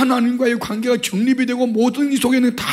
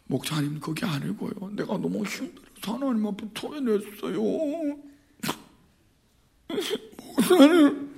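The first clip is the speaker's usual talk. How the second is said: much softer, hushed explanation; meek soft plea; 9 dB quieter than usual. Retold or imitated. Hannah softly explains herself to the priest Eli. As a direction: plead gently and humbly.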